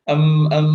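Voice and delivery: loud, deliberate "em, em" hesitation; filler sounds. Shown as a demonstration. Teacher showing vocalized pauses, deliberate filler hums. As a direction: demonstrate stalling with hummed fillers. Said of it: "ini biasanya kayak fillers".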